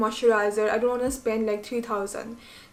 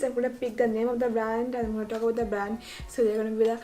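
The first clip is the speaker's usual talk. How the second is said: rushed, fast-running chatter; talking too fast; much faster than usual. Real, not acted. Vlogger explaining how she'll pick brands, talking fast. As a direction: rattle it off quickly. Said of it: "Why I'm talking so fast?".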